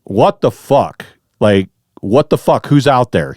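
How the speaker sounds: mild mock yell, drawn out at first; retold yell. Camper challenging whoever is outside his tent, mild retold yell. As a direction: call out into the dark, holding back the volume. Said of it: "I yell".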